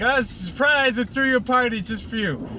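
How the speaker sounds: spring the surprise like a bubbly party pony; high mock excitement. Pinkie Pie throwing party.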